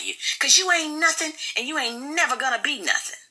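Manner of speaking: high scornful wife; Michelle's voice. Acted. Wife tearing down her husband, high and scornful. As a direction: pitch up, sneer every line.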